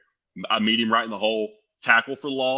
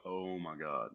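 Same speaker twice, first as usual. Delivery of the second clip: laughing disbelief; 4 semitones lower than usual. Real, not acted. Starstruck realising who is calling.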